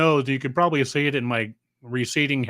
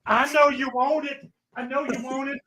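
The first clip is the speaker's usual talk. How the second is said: mock seductive tease; 9 semitones higher than usual.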